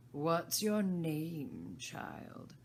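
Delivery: loud, slow queenly demand fading at the end; imperious queen. Acted. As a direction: loom over the child. Queen questions Alice.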